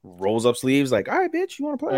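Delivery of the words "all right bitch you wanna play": very high-pitched put-on comeback; mock challenge. Host acting girl accepting the basketball challenge, mock dare. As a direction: squeak out a playful dare.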